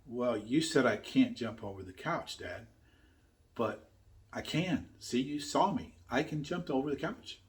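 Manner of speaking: soft, sheepish kid imitation; sheepish boy. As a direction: imitate a small boy meekly explaining himself to his dad. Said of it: "Garrett kind of sheepishly looked up".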